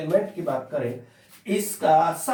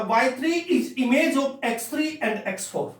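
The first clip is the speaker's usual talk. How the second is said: spelled-out reading of the mapping; careful reading aloud; 5 semitones higher than usual. Shown as a demonstration. Teacher reading the mapping aloud, carefully. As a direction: read it out carefully. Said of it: "हम इसको ऐसे पढ़ते हैं".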